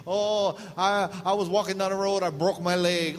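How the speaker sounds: high, loud mock complaint; mock whiner. Mocking a careless reader, high and loud. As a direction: whine it like a misled believer.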